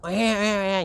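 high-pitched imitation of a wailing baby; storyteller's mock baby wail; imitated baby crying. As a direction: mimic an infant's thin "e, e, e" cry. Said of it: "nghe rõ cái đứa con nít nó khóc".

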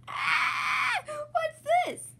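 high shrieking alarm; mock fright, high and loud; startled cry. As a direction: scream like a scared little piglet. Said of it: "says Peppa".

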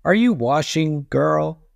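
high witch calling through a door. A narrator's reading. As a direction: call out like an old witch. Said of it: "Bony Legs called through the door again".

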